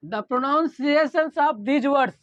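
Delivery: very slow, word by word for notes; slow dictation. Shown as a demonstration. Teacher dictating slowly to the class for notes. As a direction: read it out slowly so students can write. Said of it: "teacher dictates the definition".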